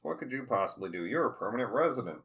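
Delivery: mocking taunt. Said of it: "Wainwright says".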